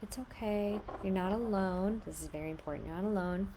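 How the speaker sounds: put-on soft, tender comfort for a crying child; soothing. Shown as a demonstration. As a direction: reassure the child gently. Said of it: "you tell the child".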